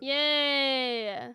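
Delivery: bright happy cheer. Real, not acted. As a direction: cheer along. Cheering the news.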